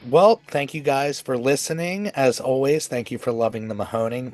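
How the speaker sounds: stuffy, nasal from a cold. Real, not acted. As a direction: talk through a blocked nose. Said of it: "My apologies for the nasally voice".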